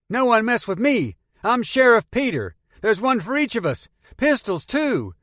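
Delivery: high, loud swaggering shout; a teen showing off new guns; excited boast. Acted. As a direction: crow it like a kid playing sheriff. Boy brandishing guns.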